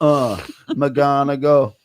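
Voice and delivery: "McGonagall" drawn out slowly, syllable by syllable; slow careful pronunciation. Shown as a demonstration. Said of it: "Professor McGonagall".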